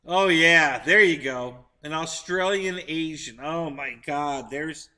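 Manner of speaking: excited agreement. Real, not acted. Excited about Australian Asian.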